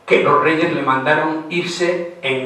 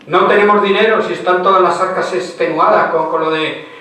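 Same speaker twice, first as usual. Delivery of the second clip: louder and higher, an exasperated king shouting at his wife; raised royal quarrel; 4 semitones higher, 3 dB louder than usual. Retold or imitated. King arguing with the queen over money, shouting in exasperation. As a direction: push it up like a husband losing patience. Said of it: "bajen ustedes la voz".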